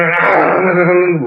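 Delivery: imitated worked-up babble; frantic waiter noise. Storyteller imitating an upset waiter, frantic noise. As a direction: mimic a madman's flustered noise.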